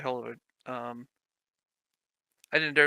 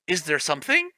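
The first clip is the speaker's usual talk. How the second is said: PS1 cutscene voice; 2 semitones higher than usual. Shown as a demonstration. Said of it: "like original Resident Evil".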